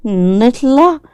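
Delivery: high, slow worried question; anxious child. A narrator's reading. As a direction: ask where he'll take you, uneasy. Child worried about being taken.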